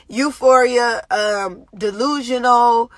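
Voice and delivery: Euphoria said slowly through a little laugh; laughing correction. Real, not acted. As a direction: chuckle at the slip and land on Euphoria. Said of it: "I'm sorry, well, both".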